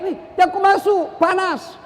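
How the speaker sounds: high-pitched cry of warning, no real volume; mock warning yell. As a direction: call out a hammed-up alarm. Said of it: "dia teriak".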